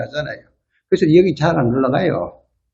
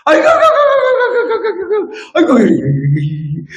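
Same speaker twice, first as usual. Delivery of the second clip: put-on groaning old man; faster than usual. Rich retiree groaning as he wakes, high wailing moan. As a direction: groan aiguh over and over like a grumbling senior. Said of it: "눈 뜨자마자 무슨 말부터 하는 줄 아세요".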